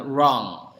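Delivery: "wrong" starting with a rounded, untrilled r; American w-like R. Shown as a demonstration. Teacher giving American accent examples, w-like R. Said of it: "seolah-olah bunyi W-nya".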